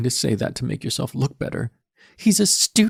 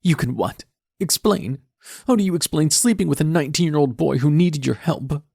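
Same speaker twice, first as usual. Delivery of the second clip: put-on high, loud teen girl, crying with rage; tearful furious daughter; 9 semitones higher, 6 dB louder than usual. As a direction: tear into him through tears.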